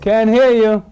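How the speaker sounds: loud and high, calling down the phone; to someone hard of hearing. Real, not acted. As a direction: raise your voice for a faint line. Caller barely audible on line.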